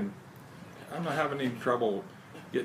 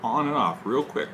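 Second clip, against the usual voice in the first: talking around pipe stem; 3 dB louder than usual. Real, not acted. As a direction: pipe clenched in teeth. Seen 0: Pipe stem clenched in mouth through 3.1s, removed by 3.4s.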